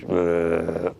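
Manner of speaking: rolled rumble; trilled engine-like rumble; imitated rumbling noise. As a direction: make a long rolling brrr sound. Imitating rumbling noise heard at night.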